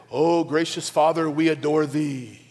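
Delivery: imitating stiff, slowed church praying; mock formal prayer. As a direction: intone it like old-fashioned churchy prayer. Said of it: "That feels formal".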